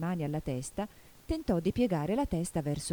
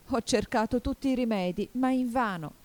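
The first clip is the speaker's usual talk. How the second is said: higher-pitched plaintive complaint; sobbing, acted; 6 semitones higher, 3 dB louder than usual. A narrator's reading. Pigeon has tried every remedy, acted plaintive sobbing. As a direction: lament with a mild mock sob. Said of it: "soggiunse singhiozzando".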